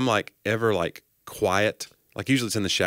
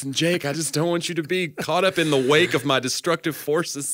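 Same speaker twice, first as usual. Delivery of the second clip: mock confession; 3 semitones higher than usual. Host imitating co-host's awkward mic confession, mock melodrama. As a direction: lay on the wounded self-pity, half whispered at first.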